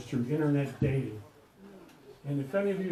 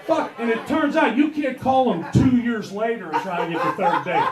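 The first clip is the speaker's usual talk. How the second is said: comic shout; 4 semitones higher, 5 dB louder than usual. Acted. Comic rant about dating.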